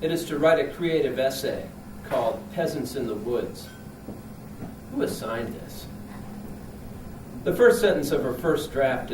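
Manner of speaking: deliberate comic reading with punched phrases; declaimed humorous prose, pausing between sentences; literary reading. Acted. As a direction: read it out to an audience, deadpan and emphatic. Reads own comic prose piece.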